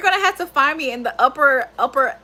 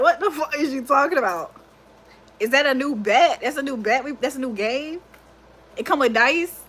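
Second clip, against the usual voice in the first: mock confused friends. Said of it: "they're gonna look at me like".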